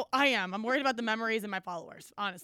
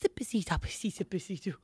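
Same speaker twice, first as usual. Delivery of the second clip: witch incantation; 3 semitones lower than usual. Pretend. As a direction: chant it like a Hocus Pocus witch casting a spell. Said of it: "you're reciting, like, song lines from Hocus Pocus".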